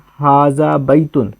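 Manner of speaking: हाजा बैतुन read slowly, word by word. Shown as a demonstration. Teacher reading the Arabic phrase slowly to students. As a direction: spell out हाजा बैतुन at a careful pace. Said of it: "इसका ये क्या लिखा है?".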